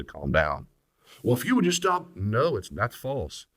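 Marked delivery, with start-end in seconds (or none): 1.2-2.2 mock whiny retort. Mocking defensive spouse's retort.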